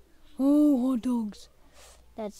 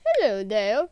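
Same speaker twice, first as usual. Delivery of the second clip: bouncy, sing-song greeting; mama penguin voice; 3 semitones higher, 3 dB louder than usual. Pretend. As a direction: greet like a cheery mom penguin. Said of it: "Oh, Mama Penguin".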